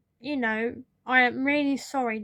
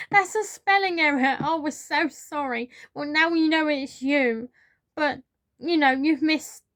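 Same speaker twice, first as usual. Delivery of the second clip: higher, louder, laughing through the apology; amused; 4 semitones higher, 4 dB louder than usual. Retold or imitated. Boss apologising to the sacked worker while laughing, higher and louder. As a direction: brush it off with a chuckle.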